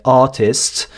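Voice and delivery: artist with a clear T, formal British; standard British. Shown as a demonstration. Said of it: "en accent donc britannique, soutenu, on dirait".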